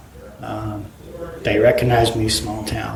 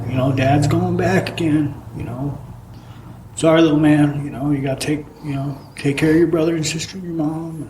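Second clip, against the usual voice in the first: tearful; 4 semitones higher than usual. Retold or imitated. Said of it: "I look at him bawling".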